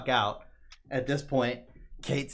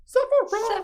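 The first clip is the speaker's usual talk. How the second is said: high, loud villain announcement; dramatic shout; 12 dB louder, slower than usual. Acted. Host reveals who shows up, dramatic shout. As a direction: belt out the name as a big reveal.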